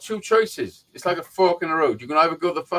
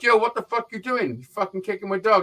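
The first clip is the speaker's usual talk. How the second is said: higher-pitched indignant demand, re-enacted; retold angry challenge; 5 semitones higher than usual. Confronting the man who kicked his old dog, indignant. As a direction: act out challenging someone, voice raised in pitch.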